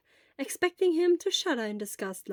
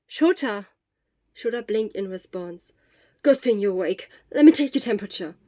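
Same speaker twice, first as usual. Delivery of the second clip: a worried friend checking in; Hisashi; 8 dB louder than usual. A narrator's reading. Hisashi startled, takes temperature.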